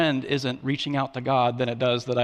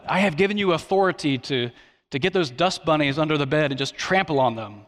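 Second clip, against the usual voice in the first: mock apocalyptic proclamation. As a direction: hand down a playful decree. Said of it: "I don't talk like that".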